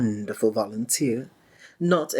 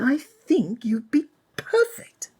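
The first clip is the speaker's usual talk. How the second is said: excited breathy whisper, pitched up; hushed, higher, eager whisper; 12 semitones higher than usual. Acted. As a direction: whisper it high with delight. Offering the assistant job.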